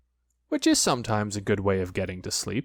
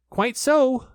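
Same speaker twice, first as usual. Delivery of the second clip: higher, louder put-on courage; more bravely; 13 semitones higher, 5 dB louder than usual. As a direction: puff up to sound brave. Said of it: "still more bravely".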